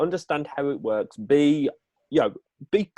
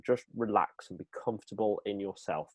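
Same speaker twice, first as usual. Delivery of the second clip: calm and relaxed; 3 semitones lower, 6 dB quieter than usual. Shown as a demonstration. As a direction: soothe a nervous presenter.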